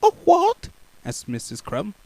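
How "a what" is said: much higher innocent question; mock deafness. Baker pretending not to hear. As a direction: ask sweetly as if deaf.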